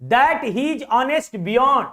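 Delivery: dragged, very slow read-out; slow reading aloud. Shown as a demonstration. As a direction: read the line word by word. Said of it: "देखो आगे". (वाक्य धीरे-धीरे खींचकर पढ़ना)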